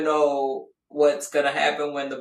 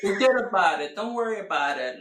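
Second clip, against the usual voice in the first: lightly imitated Chicago accent; a hint of imitated Chicago wise guy; faster than usual. Imitating husband's way of talking, light Chicago accent. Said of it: "he has that Chicago accent".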